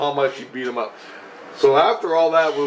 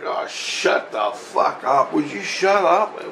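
retold exasperation; 4 semitones higher, slower than usual. Retold shouting back at his tormentor.

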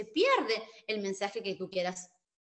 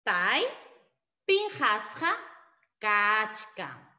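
spaced model answer; much slower than usual. Shown as a demonstration. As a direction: drill with pauses.

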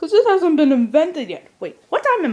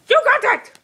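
much higher, bright genie grant; leprechaun voice; 12 semitones higher, 4 dB louder than usual. Acted. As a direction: grant the wish with gusto. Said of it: "You sound like a little leprechaun".

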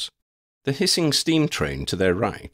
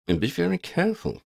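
warning; 10 semitones higher than usual. A narrator's reading. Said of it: "Ambrose warned".

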